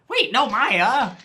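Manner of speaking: slow, loud, panicked protest; alarmed shout. Acted. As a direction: stop her before it's too late. Trying to stop the popper.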